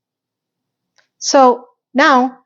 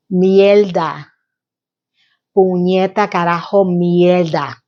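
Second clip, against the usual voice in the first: Spanish cursing; 4 semitones lower, slower than usual. Real, not acted. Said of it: "all the curse words in Spanish".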